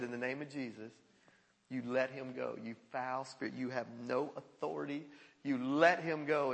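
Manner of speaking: low, hushed, firm order; quiet command. Retold or imitated. Pastor ordering a foul spirit out, quiet command. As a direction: keep it low and soft, with quiet authority.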